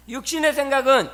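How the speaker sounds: loud proclaiming call; called-out recitation. Real, not acted. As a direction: call it out to the congregation. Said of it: "한번 외쳐보겠습니다".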